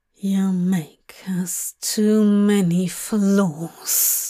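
hissing serpent voice. Narrator reading Nightmare speaking to a terrified creature, in Nightmare's hissing serpent voice. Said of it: "hissed Nightmare, in the voice of a serpent".

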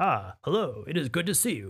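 otherworldly alien creature voice. Demonstrating how the Trenin alien race speaks, in a Trenin alien voice. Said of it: "So this race is called the Trenin. So they'll say like".

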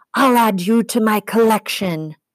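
high-pitched snarl full of rage. She speaks to the satyr who just struck her; snarling. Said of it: "she snarled".

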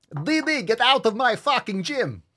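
put-on squeaky high cartoon boy voice. Joking about a Dexter's Gym shirt, the speaker does a Dexter voice. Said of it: "I did not expect to hear a flawless Dexter".

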